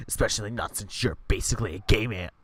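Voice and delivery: catty bear voice; catty jab. Acted. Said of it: "the bear shoots back".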